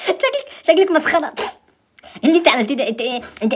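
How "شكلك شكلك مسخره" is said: laughing through the words; real laughter breaking in; giggling at the screen filter. Real, not acted.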